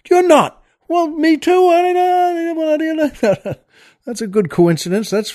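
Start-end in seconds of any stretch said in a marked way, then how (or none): 0.1-3.6 high, excited pub regular in a joke; amazed pub fellow. Retold or imitated. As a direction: squeal with delight at the coincidence. Joke character thrilled at coincidence.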